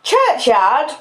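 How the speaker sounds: high, incredulous questioning shout; scolding sister's scornful repeat; indignant echo. Acted. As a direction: throw "Churchyard" back as a rising challenge.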